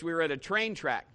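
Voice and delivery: normal talking voice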